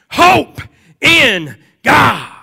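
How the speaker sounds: high, loud proclaiming shout; crying out. Acted. Preacher voicing David crying out his hope, loud and high. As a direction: fling HOPE out as a cry. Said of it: "He, he cries out".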